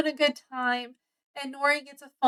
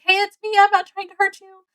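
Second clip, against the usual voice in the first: reassuring call; 8 semitones higher, faster than usual. Retold or imitated. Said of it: "and she's like".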